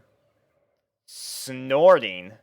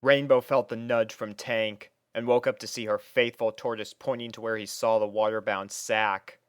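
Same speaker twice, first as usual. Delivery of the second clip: ordinary delivery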